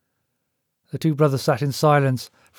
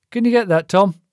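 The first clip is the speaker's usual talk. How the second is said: raised, higher call to another room; 6 semitones higher, 4 dB louder than usual. Acted. Frank calls his brother to answer the door, calling out. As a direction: call him from across the house. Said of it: "he called to his brother".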